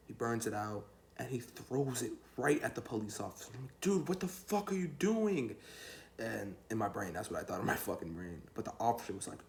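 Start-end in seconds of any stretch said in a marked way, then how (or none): 3.8-5.6 high, drawn-out cry of disbelief; appalled outburst. Retold or imitated. Friend threw a joint at police, appalled. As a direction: act out being aghast, stretching it out.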